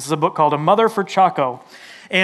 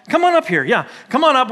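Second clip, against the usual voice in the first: higher, eager invitation to come forward; 6 semitones higher than usual. Real, not acted. Pastor inviting kids up for story time, calling out.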